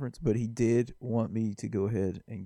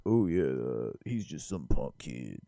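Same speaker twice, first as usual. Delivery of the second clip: low mumbled grumble, imitating a doubter; dismissive mock teammate; 10 semitones lower, 3 dB quieter, slower than usual. Imagined teammate writing off the rookie in the locker room, dismissive. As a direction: put on a low, unimpressed teammate voice.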